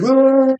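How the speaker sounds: very high drawn-out retching noise; imitated puking. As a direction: mimic throwing up with a high "uh". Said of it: "You could puke on them".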